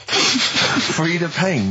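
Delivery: slow, disbelieving repeat; incredulous. Real, not acted. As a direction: stretch it out in disbelief. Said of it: "That's awful".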